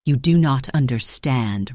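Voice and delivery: loud frantic yell. Acted. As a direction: shout it frantically. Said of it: "Ronan yelled".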